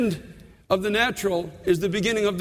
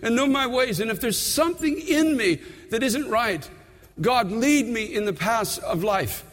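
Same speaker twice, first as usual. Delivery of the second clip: David's prayer. Retold or imitated. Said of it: "cried out".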